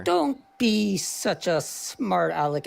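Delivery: slow, measured professor impression; Jordan Peterson voice. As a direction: drag it out like a lecturing professor. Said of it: "as my friend Jordan Peterson would say".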